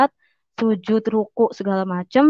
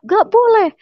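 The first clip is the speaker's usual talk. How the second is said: imitated protest, high and louder; indignant prohibition; 10 semitones higher, 4 dB louder than usual. Brother forbids sibling's choice of faith, indignant protest. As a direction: cut in with a high-pitched, forceful refusal.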